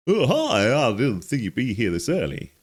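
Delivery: lightly hammed-up surprise at an unexpected visitor; startled greeting. Voices game character greeting player.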